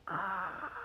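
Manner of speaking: soft drawn-out wail; mock dismayed cry. Daughter embarrassed by dad, mock soft wail. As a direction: let out a small pretend wail. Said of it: "And I was like".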